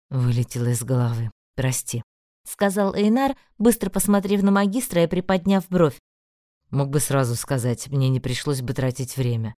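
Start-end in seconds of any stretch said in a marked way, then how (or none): 0.1-2.0 lower, deeper male voice; lightly voiced young man; Einar voice. A narrator's reading. Einar's lines voiced low. 6.7-9.5 lightly voiced male mage; magister voice. A narrator's reading.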